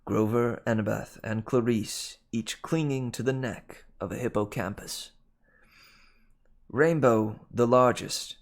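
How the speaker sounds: measured audiobook narration; story narration. A narrator's reading. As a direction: read the adventure aloud, clearly articulated. Reads the novel aloud.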